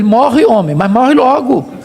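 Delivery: impatient retold urging, rising in pitch at the end; mock exasperation, pushed upward; exasperated wife. Voices Job's wife urging death.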